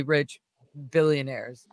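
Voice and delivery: hushed whisper for effect. Real, not acted. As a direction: drop to a secretive whisper. Stressing wealth in hushed tone.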